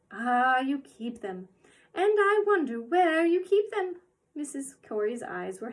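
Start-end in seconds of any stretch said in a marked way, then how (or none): 0.1-4.0 put-on inquisitive old woman. Mrs Corey inquisitive.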